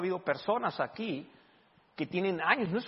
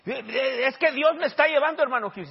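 retold dying man; 8 semitones higher, 8 dB louder than usual. Preacher voicing the brother in the wheelchair, mock plea. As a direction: lean into the old man's resigned plea.

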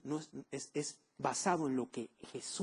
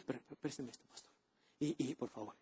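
timid pleading; 5 semitones lower, 11 dB quieter than usual. Retold or imitated. Timid believer begging the pastor.

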